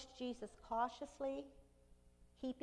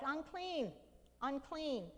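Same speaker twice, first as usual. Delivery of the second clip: crying out; 4 semitones higher, slower than usual. Retold or imitated. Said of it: "and cry out".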